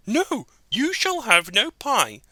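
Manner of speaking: sharp loud scolding mother; scolding mother cat. Acted. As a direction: shout at the naughty kittens. Mother refuses.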